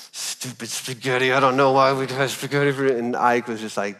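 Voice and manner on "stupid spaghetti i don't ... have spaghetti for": grumbling mutter. Retold or imitated. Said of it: "Dad, are you grumbling?".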